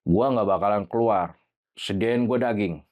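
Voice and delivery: lightly voiced low spirit; a hint of a demanding spirit, slowing at the end; possessed spirit. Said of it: "suaranya gede, ngebas".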